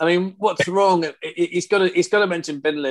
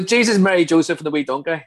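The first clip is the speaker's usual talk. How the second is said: Northern Irish accent; 4 dB louder than usual. Shown as a demonstration.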